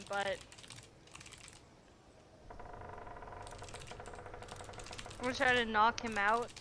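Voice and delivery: hiccuping mid-sentence; words broken by hiccups. Real, not acted. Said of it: "it's happening to me".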